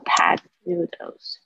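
slow, careful "packed noodles" with a clear p and k. Shown as a demonstration. Teacher spells out "packed noodles" slowly for learners. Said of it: "它也常会变成".

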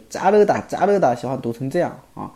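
자르다 with a tense, stressed first syllable; stressed spoken form. Shown as a demonstration. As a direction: hit 자 hard, like 짜르다. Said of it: "喜欢读成重音的感觉".

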